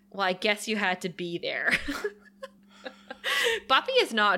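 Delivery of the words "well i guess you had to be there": dry, dismissive sarcasm; deadpan, unimpressed put-down; a mild sarcastic brush-off. Retold or imitated. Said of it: "says so sarcastically".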